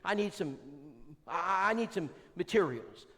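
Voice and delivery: imitating a woman caller; caller's voice. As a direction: beg for the materials in her voice. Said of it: "She says".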